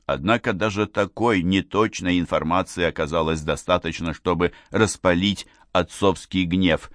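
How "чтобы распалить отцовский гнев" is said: usual speaking voice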